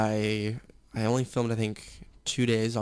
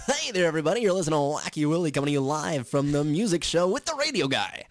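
zany morning-radio DJ, pitched up; over-the-top radio guy patter; Wacky Willie; 5 semitones higher than usual. Shown as a demonstration. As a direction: hype it like a goofy morning zoo host. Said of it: "it's kinda like the".

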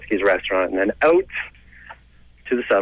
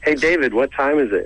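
lightly put-on, higher voice; higher, hammed-up asking voice; acted question; 6 semitones higher than usual. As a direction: call over with a higher-pitched casual question. Voices someone asking British friend time.

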